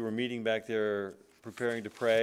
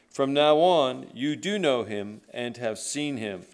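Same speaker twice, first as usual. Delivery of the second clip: scripture reading; 4 dB louder than usual. Acted. Pastor reading John to his congregation, solemn scripture reading. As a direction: read the verses like they carry weight.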